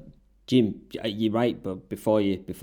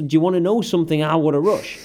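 hurried, lightly voiced catchphrase; quick retelling of Hawk's line; 3 semitones higher than usual. Host repeating the wrestler's catchphrase, in a quick light retelling. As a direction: rattle it off, half-hearted. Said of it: "That was the".

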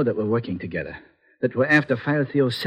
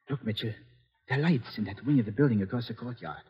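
hushed; 7 dB quieter than usual. Acted. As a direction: speak quietly so guards won't hear. Whispering inside the enemy grounds.

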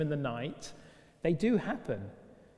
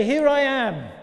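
voice of God; 8 semitones higher, 9 dB louder, slower than usual. Pretend. God interrupting the television.

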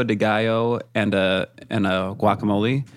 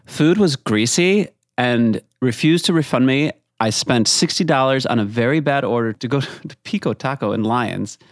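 lightly put-on reading voice; funny voice. Host reading a bad review, lightly put-on. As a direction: read the review in a mildly silly voice. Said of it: "read in a funny voice".

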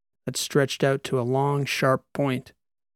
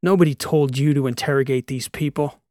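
scolding; 3 dB louder than usual. Acted. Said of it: "Abali scolded the creature".

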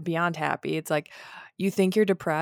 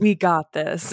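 pep talk; 6 dB louder, slower than usual. Retold or imitated. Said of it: "this deep breath of, like".

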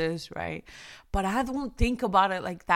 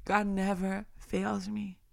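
repeated much softer, inward; quiet reverent repeat; 6 dB quieter than usual. Acted. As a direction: drop the voice and say it to yourself. Repeats line, softer second take.

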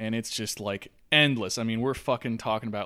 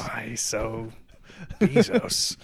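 Joker voice; 3 semitones lower, much slower than usual. Retold or imitated. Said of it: "Heath Ledger Joker".

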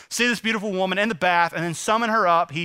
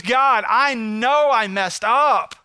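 loud, drawn-out cry to God; earnest plea; 3 semitones higher, 4 dB louder, much slower than usual. Acted. Preacher voices David confessing to God, earnest plea. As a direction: plead slowly and forcefully.

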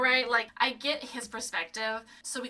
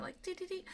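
pop-up video jingle; 9 semitones higher, 9 dB quieter than usual. Shown as a demonstration. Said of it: "So this is the pop-up video moment".

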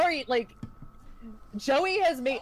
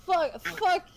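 put-on drunk betrayed rage; 4 semitones higher than usual. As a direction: rage at the man who slept with your wife. Betrayed husband confronts Paulie.

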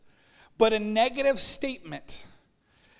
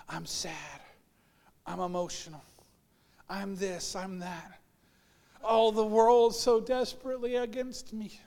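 much softer, hammed-up mopey sighing; mock self-pity; 3 dB quieter than usual. Teenager lamenting the world, mock mopey and soft. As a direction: whine it as a mock melodrama. Mocking teen emotional complaints.

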